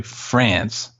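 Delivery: "France" with a nasal mock French vowel. Shown as a demonstration. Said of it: "Get real nasally on it".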